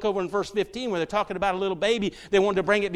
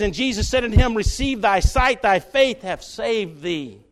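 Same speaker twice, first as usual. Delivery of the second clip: slow, loud, solemn scripture; slow solemn reading; 5 dB louder, slower than usual. Acted. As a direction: weigh every word of the blessing. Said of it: "slow solemn scripture read".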